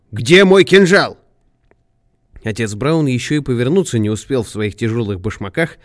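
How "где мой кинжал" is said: high, loud, stretched-out demand; shouted question, pitched high; frantic shout. A narrator's reading. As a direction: cry out for a missing weapon. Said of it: "крикнул он".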